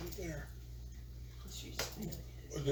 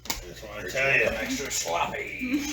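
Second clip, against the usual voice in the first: mayonnaise lady voice; 2 semitones lower, slower than usual. Pretend. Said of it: "mayonnaise lady voice".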